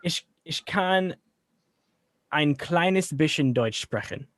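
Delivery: slow, careful German with pauses; halting recall. Real, not acted. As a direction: piece rusty German together slowly. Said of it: "downloading back to my brain stuff from high school".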